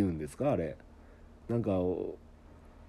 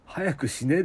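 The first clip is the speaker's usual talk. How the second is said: 早くしねえ with the Okayama ending しねえ; a local version of hurry up, said as an example; Okayama dialect; 4 semitones higher than usual. Shown as a demonstration. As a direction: clip the request into blunt Okayama dialect. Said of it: "ですよ".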